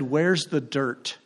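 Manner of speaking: drawn out slowly, plaintive; slow, wistful question; slow plaintive ask. Retold or imitated. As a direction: stretch it slowly like a farmer missing soil. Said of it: "I literally said".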